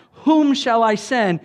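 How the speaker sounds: loud, slow ringing call with WHOM stressed; cry from heaven. Acted. Heaven crying out for a messenger, loud slow call. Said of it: "there's this cry out".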